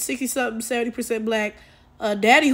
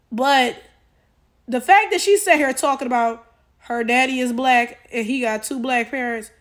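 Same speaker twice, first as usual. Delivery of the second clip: ordinary talk, nothing marked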